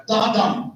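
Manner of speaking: DA DUM with both beats weighted equally; spondee stress pattern. Shown as a demonstration. Teacher sounding out a spondee, both stressed. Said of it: "Both are stressed".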